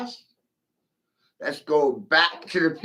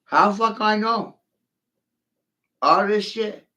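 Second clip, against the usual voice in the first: incredulous outburst; 8 semitones higher than usual. Real, not acted. Baffled rant about lightning.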